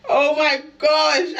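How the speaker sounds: drawn out in real jitters; nervous slow gasp. Real, not acted. Nervous before live test result.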